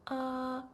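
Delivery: a steady, flat "ah" like at the doctor's; flat first tone. Shown as a demonstration. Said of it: "like saying".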